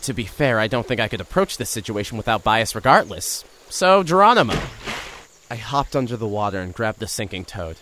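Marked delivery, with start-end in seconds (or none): 3.7-4.5 loud, high leap cry; gleeful battle cry. Acted. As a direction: shout it as you jump. Leaping into the river.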